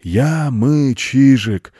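high, loud crow chant; bawling crows. A narrator's reading. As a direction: cry it out like crows in the treetops. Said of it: "Вороны уже так и орут".

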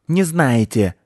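high, loud squealing squirrel voice. Acted. Squirrel squeals at the children. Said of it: "заверещала Белка".

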